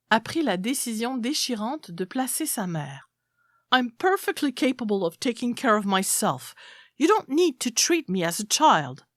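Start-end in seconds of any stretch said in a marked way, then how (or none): 3.7-9.0 proud grandmother voice, raised at the end; indignant old woman. Acted. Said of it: "disait Mary".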